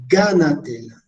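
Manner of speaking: "gánatela" whole, stressed on the first syllable GA; teacher's model of "gánatela" with the weight on GA. Shown as a demonstration. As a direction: put the word back together as GÁ-natela, falling after GA. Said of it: "tónico, ga".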